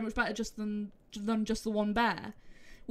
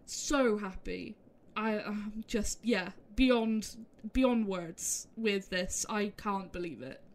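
emotional; slower than usual. Real, not acted. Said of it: "then I'm emotional".

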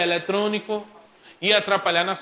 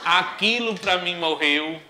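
put-on girl's scorn. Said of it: "Quando a menina tá com raiva do boy".

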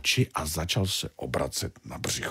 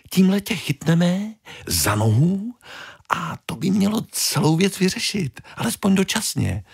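little fish voice; 13 semitones higher than usual. Acted. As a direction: squeak it out like a tiny fish. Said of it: "doplnila malá". (malá rybka, výrazně vyšší hlas)

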